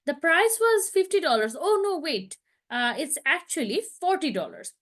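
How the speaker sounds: slow, clear mock recording voice with a self-correction; listening test audio. Shown as a demonstration. Teacher imitating an IELTS audio clip, slow and clear. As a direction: play the exam speaker who corrects the price. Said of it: "অডিওটা অনেকটা এরকম হতে পারে".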